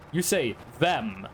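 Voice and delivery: them said as the Norwegian question word for who. Shown as a demonstration. Teaching chat the Norwegian word for who, slowly. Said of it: "if you want to say who".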